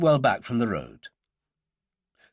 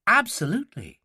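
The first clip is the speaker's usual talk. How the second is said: keen, pitched-up agreement; eager young student; enthusiastic; 8 semitones higher than usual. A narrator's reading. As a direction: agree wholeheartedly. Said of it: "She was full of enthusiasm".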